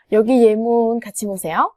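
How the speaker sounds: ordinary talk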